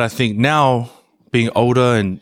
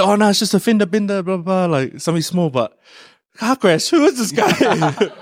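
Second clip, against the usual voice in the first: mock calm reply; 7 semitones higher than usual. His fake reassurance, laughing.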